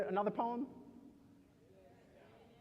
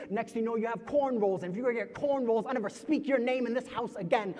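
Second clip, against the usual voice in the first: scolding family member; 2 semitones higher, 5 dB louder than usual. Acted. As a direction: scold the child, pushing harder with each line.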